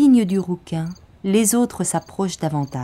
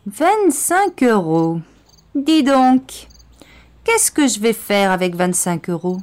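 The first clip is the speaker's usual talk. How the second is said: scornful mockery; 4 semitones higher, 4 dB louder than usual. Gang leader mocks the money.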